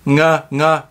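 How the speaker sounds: "nge" with a velar ng, between N and G; "nge" répété, entre N et G; ng drill. Shown as a demonstration. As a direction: repeat "nge" from the back of the throat. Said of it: "C'est un demi-N".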